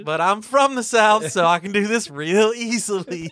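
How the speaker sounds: lightly hammed Southern accent; a playful Southern twang. Host boasting he's from the South, light Southern accent. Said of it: "I'm gonna do my Southern accent".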